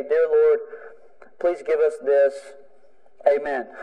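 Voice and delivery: mild, offhand routine prayer. Shown as a demonstration. Preacher mimics how we usually pray, perfunctory. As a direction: recite a stock prayer with little investment. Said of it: "kind of praying that we usually do when we say".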